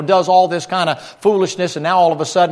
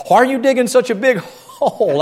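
neighbor's puzzled question; 6 semitones higher than usual. Retold or imitated. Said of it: "he goes".

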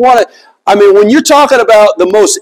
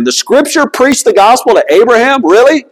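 higher, questioning disbelief; incredulous question; 4 semitones higher than usual. Acted. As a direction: question it as if it can't be true. Mock-doubting question about the verse.

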